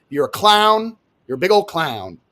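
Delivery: usual speaking voice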